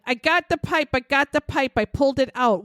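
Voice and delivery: mock his high-voiced insistence; imitated high voice. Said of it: "in his high voice".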